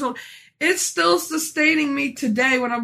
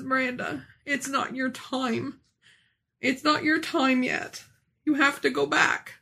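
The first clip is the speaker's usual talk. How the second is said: tender reassurance; 5 dB quieter than usual. Retold or imitated. Voicing Jesus gently.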